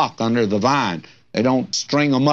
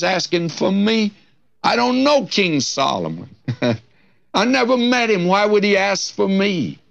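astonished; 6 semitones higher than usual. Acted. Girl astonished at king's summons.

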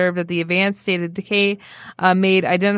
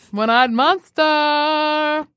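dramatic announcer voice; 7 semitones higher, much slower than usual. Pretend. Dramatic movie-title voice.

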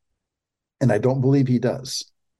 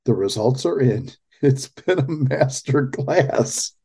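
mocking laugh; 2 semitones higher than usual. Mocking Newsom's quote while laughing.

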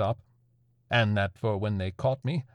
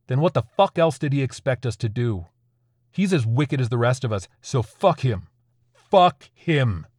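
angry; 2 semitones higher, 4 dB louder than usual. Acted. Raging at God.

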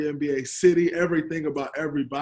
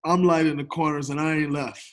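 laughing. Real, not acted. Echoing his friend's joke.

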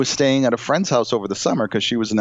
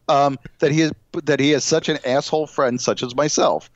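usual speaking voice

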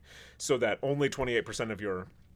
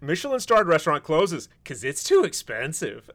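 louder, higher, laughing through it; mocking headline read; 4 semitones higher, 6 dB louder than usual. Shown as a demonstration. Host rereads the absurd headline to co-host, laughing mockery. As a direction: read it as a ridiculous headline, amused and loud. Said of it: "I'm sure that's not how it was written".

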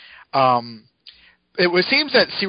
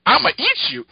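high hammed-up monster snarl; monster threat; 11 semitones higher than usual. Spider Carnage threatening Peter, hammed-up high monster voice. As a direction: growl it like a hungry beast. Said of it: "Spider Carnage is like".

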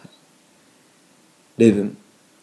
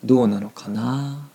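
standard Japanese phrasing of どうなのかな; 2 semitones higher, 4 dB louder than usual. Shown as a demonstration. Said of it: "スタンダードな日本語で言うと".

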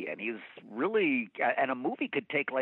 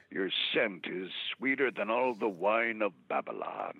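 Heston-style pickup line; 4 semitones lower than usual. Shown as a demonstration. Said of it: "go up to women and say".

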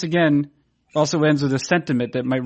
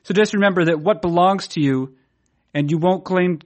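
dramatic reading. Shown as a demonstration.

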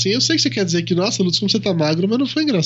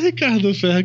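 ordinary delivery

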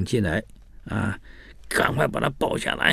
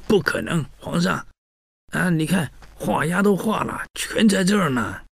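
a pitched-up, eager official insisting; official's high plea; 8 semitones higher than usual. Retold or imitated. Official insists to the emperor that the confessions are signed, pitched up high. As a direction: protest to the emperor, voice raised high.

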